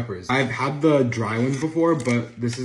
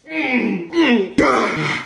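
pained hot-food groans; 10 semitones higher, 7 dB louder, much slower than usual. Real, not acted. Pained by heat.

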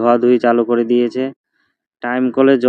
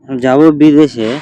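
excited; 3 semitones higher, 5 dB louder, slower than usual. Real, not acted. Announcing trip abroad.

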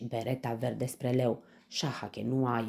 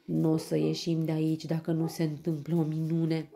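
high, loud lament; despairing; 5 semitones higher, 4 dB louder than usual. A narrator's reading. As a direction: wail that there is no way out. Story character despairs of escape. (disperat, tânguitor)

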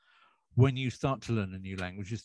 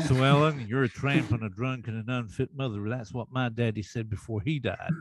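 J R Ewing Texas drawl. Retold or imitated. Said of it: "That's J R Ewing from Dallas".

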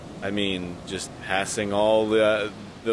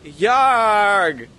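loud high pirate bellow; pirate yarg; 8 semitones higher, 8 dB louder than usual. Pretend. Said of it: "let me hear your best yarg".

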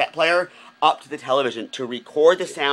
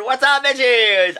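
drawn-out sassy hello, louder; sassy greeting; 9 semitones higher, 6 dB louder, much slower than usual. Acted. Vlogger greets fans with a slow sassy drawl. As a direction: vamp it up for the viewers.

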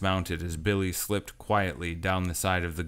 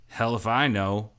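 good-natured growl; 3 semitones higher than usual. Acted. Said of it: "Cash growled back good-naturedly".

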